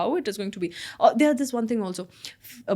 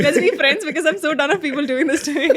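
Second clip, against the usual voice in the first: pleading loudly; 7 semitones higher, 7 dB louder, faster than usual. Real, not acted. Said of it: "Niharika, please".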